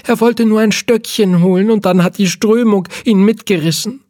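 put-on high, loud old woman's voice, frantic; old lady pleading, frantic about her dog; panicked old lady. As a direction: wail like a desperate old lady.

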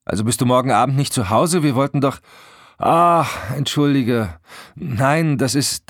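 high, loud, hurried phone exchange; flustered protest. A narrator's reading. Friends over a cancelled evening on the phone, flustered. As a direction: rush in, then break off flustered. Friend disappointed, wife apologises.

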